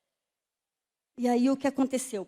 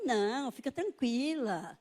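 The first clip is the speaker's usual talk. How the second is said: slow, softer reassurance; calming doctor; 5 dB quieter, slower than usual. Retold or imitated. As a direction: soothe a nervous patient, slowly. Doctor calming her, retold.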